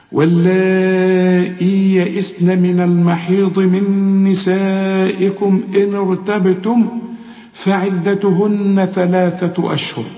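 slow, measured tajweed recitation; sustained, chant-like verse reading; Quran recitation. Acted. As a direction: recite the verse slowly with long held vowels.

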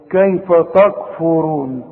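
slow "تكفرون" with a thick, heavy "طا" sound for the ت; wrong heavy taa. Shown as a demonstration. Teacher mimics the learner's mistake, heavy "طا" in "تكفرون". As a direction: mispronounce "تكفرون" as if it began with ط. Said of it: "يا راجل طا هترجع تقول لي تكفرون؟".

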